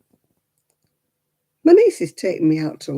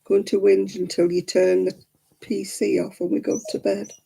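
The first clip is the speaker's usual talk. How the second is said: voicing the dog; 4 semitones higher than usual. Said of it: "She says".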